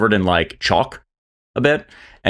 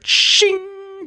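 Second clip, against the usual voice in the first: imitated blade ring. Imitated sword unsheathing.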